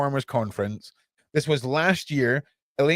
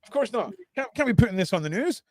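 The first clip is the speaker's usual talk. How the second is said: sarcastic cover-up voice; 3 semitones higher than usual. Acted. Sarcastic mock news denial.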